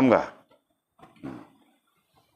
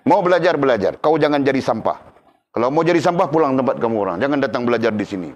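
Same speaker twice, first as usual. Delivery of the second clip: rough scolding teacher; 3 semitones higher than usual. Retold or imitated. Preacher imitating his harsh teacher scolding students, stern. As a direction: bark at lazy students to learn or leave. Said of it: "Walaupun dia kasar begitu".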